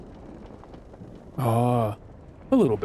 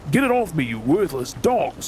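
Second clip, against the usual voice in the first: pained shout; 3 semitones higher than usual. Acted. Pinned under loose cannon.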